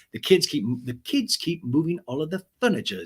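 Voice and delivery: a hint of a British accent, lightly done. Jessel complaining about the kids, in a light British accent. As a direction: mimic the mum's British lilt, understated. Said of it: "in a light British accent".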